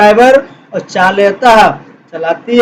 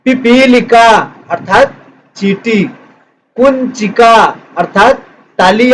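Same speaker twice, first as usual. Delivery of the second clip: slow read-along. Shown as a demonstration. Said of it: "साथ साथ हम पढ़ते चलेंगे".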